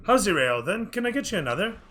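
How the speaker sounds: put-on high, bright-pitched eager boy; a young server rushing to please; eager serving boy. Serving boy checks on a customer, eager and high. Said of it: "and the boy runs over".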